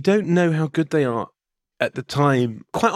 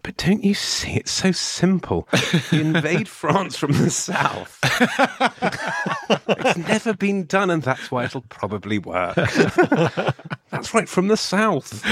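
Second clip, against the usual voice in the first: scheming general; 4 semitones higher, slower than usual. Pretend. Mock plotting general scheme.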